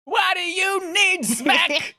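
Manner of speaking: put-on voice. Odd put-on line.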